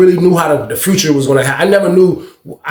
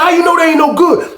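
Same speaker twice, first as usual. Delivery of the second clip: shouted challenge; 13 semitones higher than usual. Retold or imitated. Old head shouts question.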